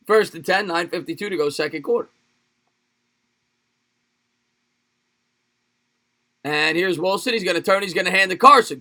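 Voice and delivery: sportscaster call, lifting on the broken tackles; play-by-play call. Pretend. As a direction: narrate the run live, then settle. Mock live game call.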